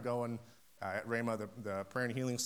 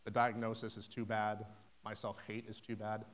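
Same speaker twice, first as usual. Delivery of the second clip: doubting inner voice; 2 semitones lower, 5 dB quieter than usual. Retold or imitated. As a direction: voice the listener's doubts softly. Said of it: "you think".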